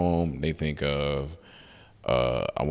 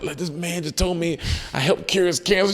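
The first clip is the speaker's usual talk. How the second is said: retold crying; 13 semitones higher than usual. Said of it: "I'm crying".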